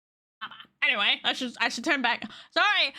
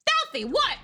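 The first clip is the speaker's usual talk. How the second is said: startled squeak; 3 dB louder than usual. Real, not acted. Surprised reaction.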